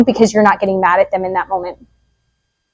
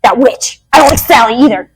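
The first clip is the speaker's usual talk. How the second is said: catty parent. Retold or imitated. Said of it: "and you're like".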